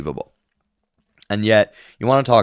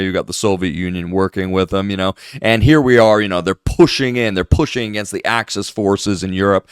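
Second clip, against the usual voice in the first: lightly mocking, indignant pundit; a hint of a mock-outraged commentator; sarcastic mockery; 2 semitones lower than usual. Parodying critics of Israel, mild mock indignation. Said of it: "That is literally what these people are arguing for".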